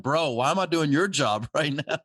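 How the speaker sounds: high, laughing exasperation; half laughing, half scolding; exasperated laughing. Retold or imitated. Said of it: "I'm like".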